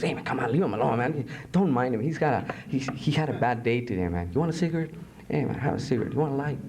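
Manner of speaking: lightly played easygoing good cop; mock-friendly and relaxed, as if offering a favour. Good cop offering the suspect a cigarette, casual and easygoing. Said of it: "the good guy comes around".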